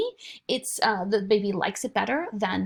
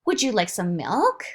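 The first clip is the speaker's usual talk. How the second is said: parentese question; 4 dB louder than usual. Shown as a demonstration. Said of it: "the mother or the father will say".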